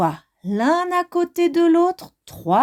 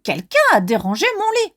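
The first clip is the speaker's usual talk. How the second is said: fast, higher angry mama bear; getting angry; 5 semitones higher, faster than usual. Acted. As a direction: snap it out fast in annoyance. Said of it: "s'énerve".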